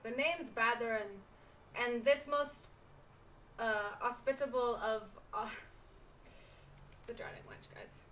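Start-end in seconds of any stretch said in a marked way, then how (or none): 0.0-5.0 loud, halting pirate brogue; put-on pirate accent, feeling for the words; bad pirate accent. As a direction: introduce yourself as a pirate innkeeper. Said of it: "Incoming bad accent".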